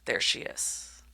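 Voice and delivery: hushed, breathy whisper of approval. Acted. King whispering to his wife, hushed. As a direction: whisper it like a pleased secret.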